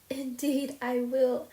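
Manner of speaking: slow, high, mildly sobbing reply. A narrator's reading. Diana tearfully promising Anne, mild sobs. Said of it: "sobbed Diana".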